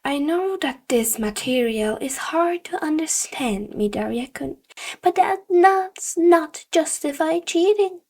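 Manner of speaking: hint of a disappointed sensei; stern teacher. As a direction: scold the student with mild disapproval. Teacher scolding student.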